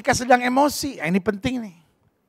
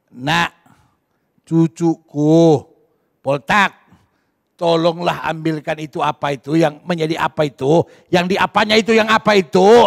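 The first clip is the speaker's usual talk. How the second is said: gentle grandpa; 5 semitones lower than usual. Retold or imitated. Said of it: "bolehlah kau berkata".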